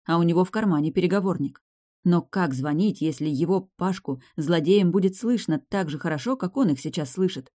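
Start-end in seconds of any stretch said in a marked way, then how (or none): none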